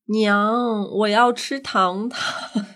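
put-on slow, lightly childlike plea; childish imitation. Quiz host plays a man turned simple, mildly childish begging. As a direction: drag out a little kid's plea for candy. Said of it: "他变得非常低龄".

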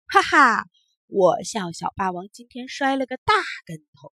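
loud mocking laugh, then teasing words; laughing taunt. Tumbler doll laughs at the bully who fell, mocking. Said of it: "不倒翁还在笑".

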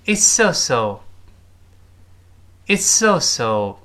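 It's so so spoken slowly and clearly for students to copy; teacher's slow demo line; slow model reading. Shown as a demonstration. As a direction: read it out slowly for the class. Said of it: "怎么说呢".

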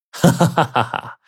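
delighted ha-ha-ha; big laugh. A narrator's reading. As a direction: burst out laughing as the prince. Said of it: "五爷就拍掌大笑啊".

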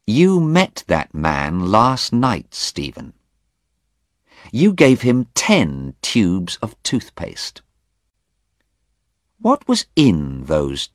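slow, deliberate accusing Anna; measured accusing woman; slow accusation. Acted. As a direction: lay out the evidence coldly.

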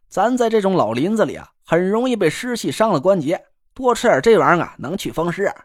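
lightly voiced teasing northern pal; cocky buddy voice. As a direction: needle your friend with a grin. Guo brags about eating ants.

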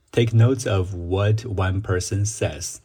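"Take notes of what one person says" said slowly, leaning on "notes"; slow model phrase. Shown as a demonstration. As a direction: read the phrase slowly for students to copy. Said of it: "它应该正确翻译是". (放慢示范这句话)

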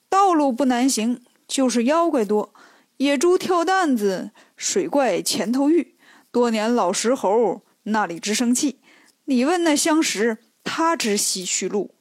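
measured verse, drawn out in places; riddle verse recitation. Acted. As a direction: recite it line by line like an oracle's rhyme. Monk answers in riddle verse. (一句一顿地吟诵偈语)

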